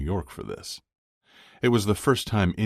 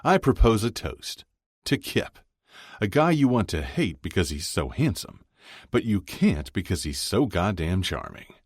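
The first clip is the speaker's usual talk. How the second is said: cheerful toast, pitched up high; booming, happy voice; 6 semitones higher than usual. A narrator's reading. Chuck toasts Kip among friends, booming and happy. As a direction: propose the toast with hearty cheer. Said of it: "in his booming, happy voice".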